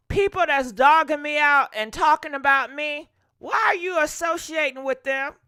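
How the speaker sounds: loud indignant callout; heated rant. Real, not acted. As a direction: call her out, fed up. Ranting at a fake friend.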